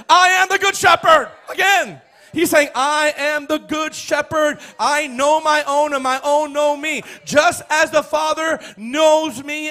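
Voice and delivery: high, loud proclamation of scripture; full-force preaching. Acted. Preacher proclaiming Jesus as the good shepherd, full-force preaching.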